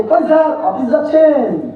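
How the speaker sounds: mock-respectful, last words drawn out slowly; teasing. Childhood friends needling him in his office dress, teasing. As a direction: stretch the question into a taunt. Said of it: "আর আমাকে চাচ্ছে".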